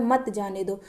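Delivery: मत जाने दो as one phrase after the comma; मत joined to जाने दो. Shown as a demonstration. Teacher finishes the comma example, मत grouped with जाने दो. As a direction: run मत straight into जाने दो. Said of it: "कामा लगा है".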